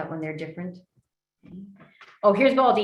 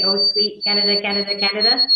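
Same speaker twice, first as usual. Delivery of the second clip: "Oh, sweet Canada, Canada, Canada" louder, in a repeating birdsong rhythm; birdsong mnemonic; 5 dB louder than usual. Shown as a demonstration. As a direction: call out "Oh, sweet Canada, Canada, Canada" like a sparrow's song. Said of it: "if you're Canadian, they say".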